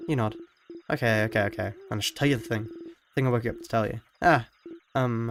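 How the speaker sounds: ordinary talk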